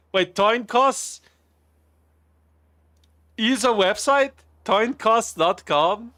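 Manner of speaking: high, slow and loud in disbelief; drawing out each word, amazed; surprised. Real, not acted. Streamer amazed a coin toss website exists, disbelieving.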